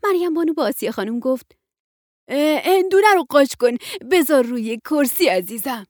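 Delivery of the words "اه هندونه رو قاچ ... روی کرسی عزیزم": cheerful grandmother. Acted. Maryam Banoo asking Asieh to slice the watermelon, cheerful. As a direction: ask a friend kindly.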